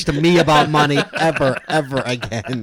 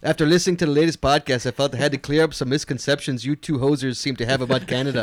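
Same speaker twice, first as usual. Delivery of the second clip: mild put-on Canadian accent, a bit hammy; 2 semitones lower, 3 dB quieter than usual. Reading a Canadian listener's email to cohost, mock Canadian accent. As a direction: read the email like a joking Canadian. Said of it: "your Canadian accent's worse than mine".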